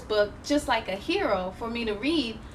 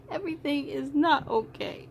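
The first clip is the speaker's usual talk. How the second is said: put-on crying girl; 4 dB quieter than usual. Alma despairs.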